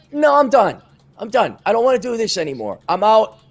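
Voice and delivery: high, emphatic declaration of quitting; acted fed-up refusal. Retells fed-up breakup declaration.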